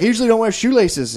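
high lightly voiced Irish lady; imitating the Irish lady. Irish lady explaining her boots to him, high mock voice. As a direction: put on her high matter-of-fact voice. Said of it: "she's like".

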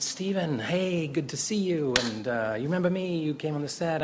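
high, friendly mock-eager hello; eager greeting. Actor approaching the director in a grocery store, eager. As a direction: imitate an over-keen acquaintance reintroducing himself.

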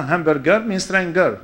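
"hamburger" and "stranger" both with hard G; hard G endings. Shown as a demonstration. Speaker explaining the newcomer's mistake, "stranger" with hard G. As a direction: make "stranger" match "hamburger", strang-ger. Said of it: "He thought every G E R is".

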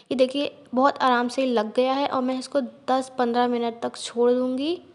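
slightly muffled lips; through a face mask. Real, not acted. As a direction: mouth covered by sheet. Seen 0: Wet sheet mask covers her whole face and mouth throughout.

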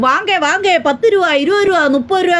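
lightly mimicked market hawker calling out; fish-seller's call. Mocking women on the live stream who call out like fish sellers, a light market-hawker cry. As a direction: hawk it like a fishwife at the market. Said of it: "തേണ്ട മീൻ വിളിക്കുന്ന കണക്ക് ഇരുന്ന് വിളിക്കും".

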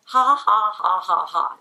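loud, deliberate ha-ha-ha, stepping down in pitch; mechanical, unconvincing laughter; forced fake laugh. Shown as a demonstration. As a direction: laugh on purpose without meaning it. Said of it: "it doesn't sound like laughing".

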